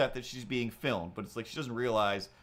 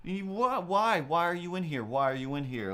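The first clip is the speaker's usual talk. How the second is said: high-pitched mock outburst, easing toward the end; mock freak-out; 6 semitones higher than usual. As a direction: imitate a woman freaking out, high and insistent. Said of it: "freaking out".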